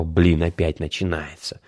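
quiet grumbling under breath; muttering. A narrator's reading. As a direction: mutter it, fed up. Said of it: "пробормотал".

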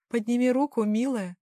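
commands her like a cold mistress; stern command. Acted. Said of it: "скомандовала Доминика".

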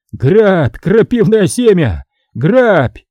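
a hint of rage; bitter outburst. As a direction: throw the words at him. Vaska throws coins in rage.

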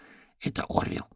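whispered, soft; whispered crow voice; quiet. A narrator's reading. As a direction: hush it to the fox. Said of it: "тихо произнесла Ленор".

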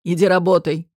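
low, rough, curt order; gruff boss. Acted. Boss curtly orders the waitress back to work, low and rough. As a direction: send her off coldly.

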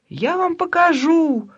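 high, hysterical shriek. Acted. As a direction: scream it in full hysteria. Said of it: "в полной истерике соседка". (истерический крик соседки)

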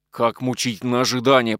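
ordinary delivery, nothing marked

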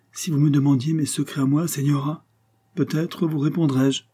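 lightly voiced cadet, playfully secretive; intriguing cadet. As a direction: play a mysterious young guardsman, voice lifted.

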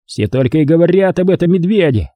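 understated scornful grumble; disgusted. A narrator's reading. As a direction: complain with mild disgust. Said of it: "пробормотал он с отвращением".

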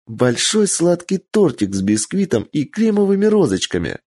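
put-on high, longing child voice; dreamy little girl. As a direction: savour every sweet word. Child names a cake wish.

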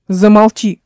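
a loud curt snap; snapping. Acted. Radobort silencing his mocking brother, angry snap. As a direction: bite the word off to shut him up. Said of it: "огрызнулся на него Радоборт".

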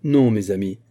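firm, solemn refusal; solennel. A narrator's reading. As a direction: restrain the crowd with solemn authority. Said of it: "répliqua solennellement Aramis". (solennellement, avec fermeté)

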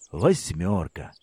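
low, slow, crushed groan of the word; dismayed. Acted. Boy staring at his ruined bike wheel, dismayed and low. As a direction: let the word sink in despair.

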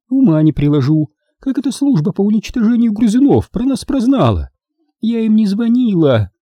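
high-pitched complaining grandmother; high, exasperated old-lady voice; Maisie, fussing. A narrator's reading. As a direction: fret and grumble in a high voice.

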